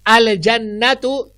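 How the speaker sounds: "अल जन्नतु" slow, with the lam clearly sounded. Shown as a demonstration. Teacher correcting the wrong form, clear lam. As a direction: keep the L in "अल जन्नतु", no assimilation. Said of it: "मैंने अज जन्नतु नहीं कहा".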